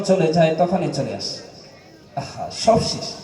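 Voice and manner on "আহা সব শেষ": low, soft sighing aside; hushed lament. Acted. Preacher lamenting once mourners leave the grave, hushed lament. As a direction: let it out quietly, like a sigh.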